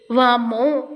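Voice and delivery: a loud, startled gasp of surprise; startled whoa. Acted. Devendra lifting Siri, startled by her weight. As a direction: cry out as if the weight caught him off guard.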